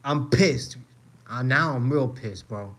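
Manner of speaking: worked up and fuming; pissed off. Real, not acted. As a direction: burst out with genuine irritation. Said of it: "I'm fucking mad".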